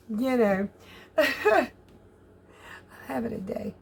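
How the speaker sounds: normal talking voice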